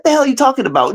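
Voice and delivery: mock outraged question; retold disbelief. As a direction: throw it back in disbelief. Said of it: "I said".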